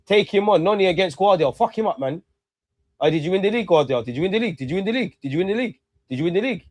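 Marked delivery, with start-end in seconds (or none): 3.0-6.6 mocking taunt. Real, not acted. Taunting Guardiola repeatedly.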